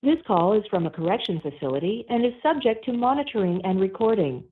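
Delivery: tinny prison phone line audio; payphone call. Real, not acted. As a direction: sounds like a call over a jail phone. Recorded prison phone call played.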